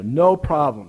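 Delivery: put-on a light Greek accent on "No problem". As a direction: say "No problem" like a Greek tour guide with broken English, lightly. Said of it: "in his broken English and Greek accent".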